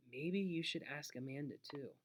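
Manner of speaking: soft, hushed suggestion, fading at the end; whispered. A narrator's reading. Librarian suggests inviting someone at the back of the library, whispered. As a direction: drop your voice as if confiding. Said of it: "pointed at the back of the library and whispered".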